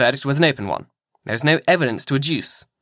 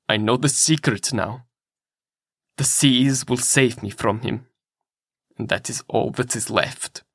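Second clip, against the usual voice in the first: steady voice. A narrator's reading. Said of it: "in a steady voice".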